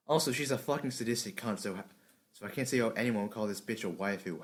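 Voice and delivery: deadpan, uninterested read; apathetic voice. Shown as a demonstration. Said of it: "in a really apathetic voice like this one".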